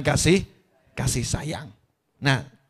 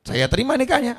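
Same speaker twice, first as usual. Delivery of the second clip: acting the vows; 3 dB quieter than usual. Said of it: "ikrar ijab kabul".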